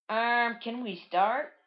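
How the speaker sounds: lightly voiced impatient character.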